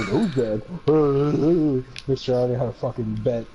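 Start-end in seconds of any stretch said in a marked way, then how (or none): 0.1-1.9 1 mock know-it-all. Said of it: "you'd be like".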